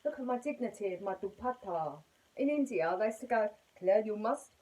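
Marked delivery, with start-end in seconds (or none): 3.8-4.5 put-on a light Indian accent, slightly louder; mock Indian accent. Hosts in India telling Claire what to wear, in a light Indian accent. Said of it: "I shouldn't do the accent".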